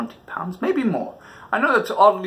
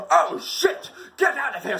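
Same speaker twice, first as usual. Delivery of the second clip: panicked yell; 10 semitones higher than usual. Retold or imitated. Fleeing the van.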